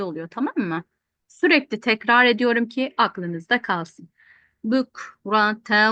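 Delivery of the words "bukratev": slow drawn-out chanted recitation; Quran recitation. Shown as a demonstration. Teacher reciting the verse for students. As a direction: chant each vowel long and even. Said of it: "teacher recites Quran verse".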